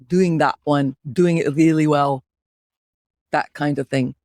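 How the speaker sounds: put-on Scottish accent. Host demonstrating the accent to co-host, in a Scottish accent. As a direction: speak with a Scottish lilt. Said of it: "That was hard with the Scottish accent".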